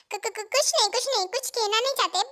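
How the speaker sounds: stammering, hasty denial; flustered stammer. Acted. Friend caught out by a challenge, flustered stammer. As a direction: trip over the first word, backpedalling.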